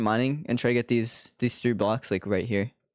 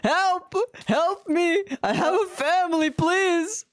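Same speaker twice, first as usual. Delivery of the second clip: high frantic cries for help; desperate cracking pleading; 14 semitones higher, much slower than usual. Real, not acted. Stuck in powdered snow, calling out.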